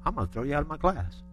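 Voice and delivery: put-on hushed, measured warning with a light Southern accent; imitated southern Oklahoma-Texas accent. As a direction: quietly lay down the law as an Oklahoma-Texas professor. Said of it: "he had that southern Oklahoma, Texas wrapped-up accent".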